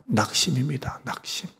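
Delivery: hushed unvoiced whisper; preacher hushing the congregation, whispered. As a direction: drop to a whisper for weight.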